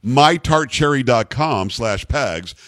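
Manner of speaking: slow, careful web address read; deliberately slow. Shown as a demonstration. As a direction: spell it out word by word, careful not to slip. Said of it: "I've gotta say it slowly".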